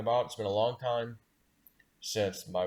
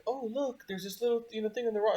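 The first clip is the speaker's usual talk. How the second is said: put-on very high little British girl voice; 12 semitones higher than usual. Older daughter spotting something on the rock, high British girl voice. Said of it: "they have this little British accent".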